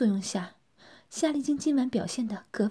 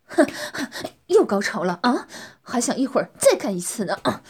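lewd smug taunt; 5 dB louder than usual. Acted. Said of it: "王庆淫笑着说".

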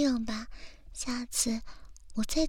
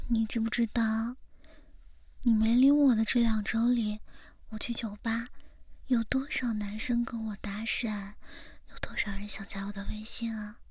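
whispering. Acted. Whispered teasing.

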